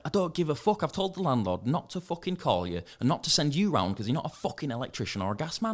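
retold rant, starting high; heated rant that gradually drops in pitch; losing temper. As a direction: re-enact an exasperated telling-off. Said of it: "I lost my rag a little".

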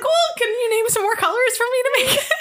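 high, squeaky voice breaking into laughter; laughing request. Retold or imitated. Woman retelling her awkward request to the gym man, laughing through it. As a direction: crack up while asking.

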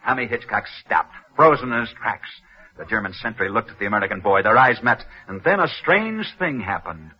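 put-on old-radio storyteller building suspense; dramatic narration. Narrator tells listeners the escape story, dramatic radio narration. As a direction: tell the legend with rising tension.

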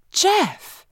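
Jeff squealed very high and delighted; giddy squeal. A narrator's reading.

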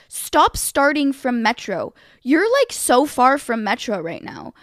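slow, emphatic retold correction; mildly exasperated insistence; annoyed. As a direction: correct them with strained patience. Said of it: "very obviously annoyed".

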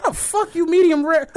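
high, laughing mock outrage; laughing disbelief. Retelling the burger order, laughing mock outrage. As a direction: crack up while asking it.

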